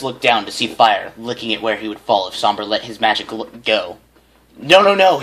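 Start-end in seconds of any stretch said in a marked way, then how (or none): 4.6-5.2 quick, high, louder "no no no"; panicked plea to stop; hasty pleading. A narrator's reading. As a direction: blurt it out in a rush. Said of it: "he told the unicorn hastily".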